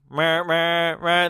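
weaker imitated engine noise; feebler car noise. Shown as a demonstration. Host mocking the film's tame chase, half-hearted car noise. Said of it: "Instead, it's just like".

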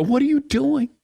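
high-pitched comic disbelief; retold indignant outburst; mock dismayed protest. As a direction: protest aloud as if caught off guard. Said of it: "I say this to her out loud".

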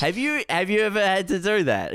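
can't believe it, ask it outright; incredulous. Real, not acted. Friend asks in disbelief about the cleaner.

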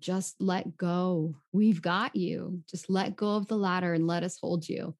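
slow, gentle reassurance; reassuring. Retold or imitated. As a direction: coax her slowly to let go. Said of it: "and they said".

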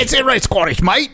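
put-on high, unconvincing Scottish accent; bad Scottish accent. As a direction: insist in a badly faked Scottish accent. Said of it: "Yeah, it's not Scottish".

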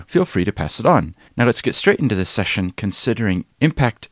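lively, emphatic host read with varied pitch; podcast intro read. Acted. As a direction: introduce the episode to listeners, punching key words.

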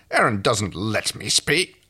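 slow, restrained protest; indignant John. Acted. John denies Aaron controls him, slow mild indignation. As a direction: object slowly, at an even pitch. First, abandoned take as John.

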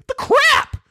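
mock shout, very high; hammed-up indignant yell through a laugh; antagonistic. Host replaying his outburst at Netflix, antagonistic mock shout. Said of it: "I said it very, you know, antagonistic".

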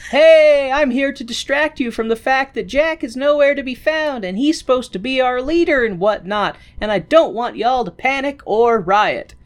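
high mock voice. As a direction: stall them like an anxious nerd. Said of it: "And David is like".

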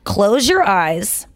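slow, calm guiding voice; meditation voice. Shown as a demonstration. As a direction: lead them gently into calm. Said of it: "all you need to do is this".

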